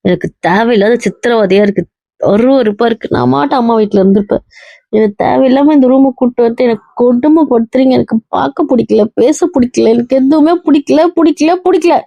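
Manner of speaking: anguished rejection, escalating to the end; distraught outburst. Acted. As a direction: pitch climbing steadily as distress builds. Wife's acted outburst rejecting husband.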